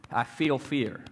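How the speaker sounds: preacher contrasting feeling with being; stress on feel. Shown as a demonstration. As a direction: feel leaned on, falling. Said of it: "Notice I said".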